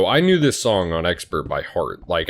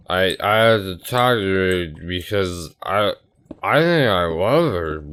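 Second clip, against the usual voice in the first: put-on drunk; slower than usual. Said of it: "getting just plastered".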